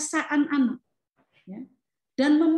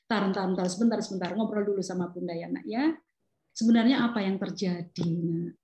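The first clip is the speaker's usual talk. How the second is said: gentle mother; 5 semitones lower than usual. Acted. Mother gently invites child to talk.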